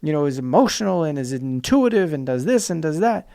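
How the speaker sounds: mild hammed-up lecturing; mock insistent. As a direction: caricature a stubborn traditionalist, fading. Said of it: "fighting so aggressively hard to say".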